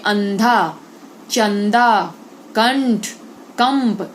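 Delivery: अंधा, चंदा, कंठ, कंप with a longer, forceful nasal; anusvara demo. Shown as a demonstration. Teacher repeats anusvara words for pupils, slow and emphatic. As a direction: stretch the ं in each word. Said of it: "हमको ज्यादा समय लगता है".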